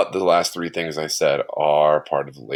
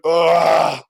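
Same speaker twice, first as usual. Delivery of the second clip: yawn groan; 9 semitones higher, 6 dB louder than usual. Real, not acted. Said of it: "Sorry, I'm yawning".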